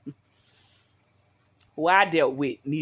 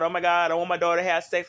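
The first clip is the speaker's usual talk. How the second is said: mock freaking out; faster than usual. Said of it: "freaking out".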